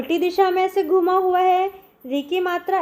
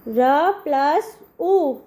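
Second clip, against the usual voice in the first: slow spelling out; much slower than usual. Shown as a demonstration. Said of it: "इस प्रकार लगती है".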